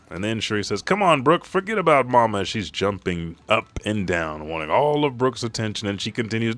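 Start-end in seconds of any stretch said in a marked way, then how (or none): 0.8-2.4 put-on high, eager child voice; little girl voice. Little Shuri begging Brooke for attention in a high child voice. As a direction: chirp it like an excited little girl.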